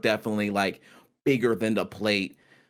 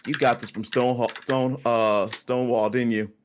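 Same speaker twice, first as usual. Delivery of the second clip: lightly voiced host. GM voicing Corwin praising wine.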